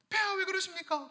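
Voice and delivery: high-pitched, startled plea to the king; summoned woman. Acted. Woman questioning the king who took her, high and pleading. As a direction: play a high-voiced subject questioning royalty.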